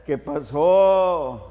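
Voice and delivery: slow drawn-out ranchero greeting; ranchero phone greeting. Shown as a demonstration. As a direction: stretch it out like a ranch hand. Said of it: "Así, así saludo yo". (saludo ranchero, lento y alargado)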